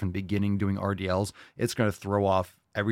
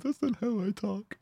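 very high, thin mock protest voice; offended Australian; 13 semitones higher, 5 dB quieter than usual. Host voices Australian audience objecting in a squeaky mock voice. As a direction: squeak it like an indignant viewer. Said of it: "Our Australian audience".

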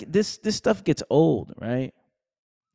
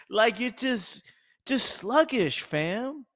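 mock sluggish; 9 semitones higher, slower than usual. Mocking a sluggish mind.

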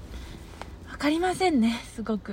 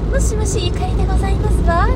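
fast, higher refined phone greeting; haughty rich girl japanese; 7 semitones higher, 4 dB louder than usual. Shown as a demonstration. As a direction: put on a posh young lady voice for the phone. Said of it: "あの、電話の声". (高めのお嬢様電話声)

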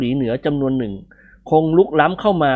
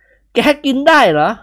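higher, slow teasing question; character voice; 11 semitones higher, 5 dB louder, much slower than usual. A narrator's reading. Friend teasing the grass eater, higher voice. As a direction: tease him in a higher character voice.

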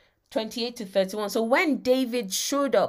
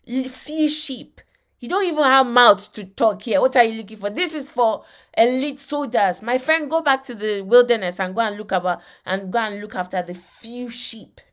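mock vindictive brother; 3 dB louder than usual. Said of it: "Can you see vindictive, immediately on the attack".

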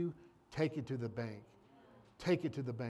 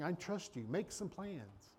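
slow, softer take of God's words; softly as the Lord; 7 dB quieter than usual. Acted. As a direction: hush it, slow and gentle. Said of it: "And now the Lord's saying".

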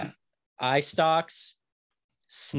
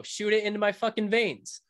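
frat bro; 8 semitones higher than usual. Pretend. Hyped bro cheer.

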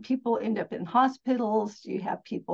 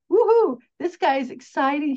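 excited woohoo; 5 semitones higher, 6 dB louder than usual. Retold or imitated. Mock excited boss praise.

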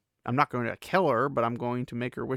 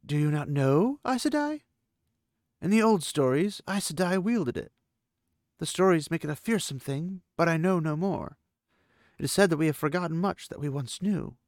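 lightly voiced Aiel woman; 5 semitones higher than usual. Aviendha speaks, voiced figure.

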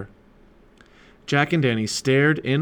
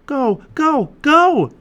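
high, loud urging, building; urgent shout; 9 dB louder, much slower than usual. A narrator's reading. Annie urging the sub toward the reef, shouting. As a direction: cry out, louder on the last one.

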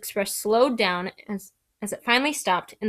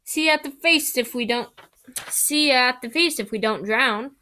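shouting over rain; 3 semitones higher than usual. Acted.

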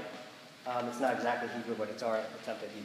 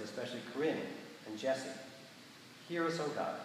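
measured liturgical prayer voice; prayer reading. Acted. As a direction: lead the congregation in solemn prayer. Leads prayers of the people.

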